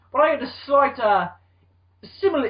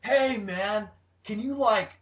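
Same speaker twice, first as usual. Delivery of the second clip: surfer dude director; 4 semitones higher, much slower than usual. Pretend. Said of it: "He's the director".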